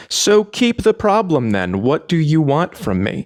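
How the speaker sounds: high, slowed, exasperated protest; exasperated retort. Retold or imitated. Coach giving up on a defensive fan, exasperated.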